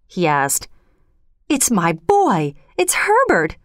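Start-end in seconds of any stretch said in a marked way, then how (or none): 1.5-3.6 slow first, then a high frantic cry on the name. Acted. Mother insisting to her husband that her son is back, frantic and high. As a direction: plead that it is her boy, rising high. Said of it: "she cried".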